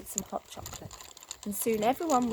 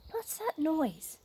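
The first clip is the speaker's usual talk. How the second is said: sudden alarm; 7 semitones higher, 4 dB quieter, slower than usual. A narrator's reading. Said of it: "said Goldilocks suddenly".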